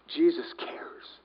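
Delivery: slow, low whisper; hushed whisper. Real, not acted. Preacher assuring the congregation, hushed whisper. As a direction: let it sink in, slowly and barely voiced. Hushed point after loud climax.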